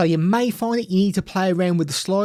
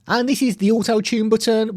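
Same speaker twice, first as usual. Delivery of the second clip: auto-tune; 3 semitones higher than usual. Shown as a demonstration. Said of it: "makes me sound a little more robotic".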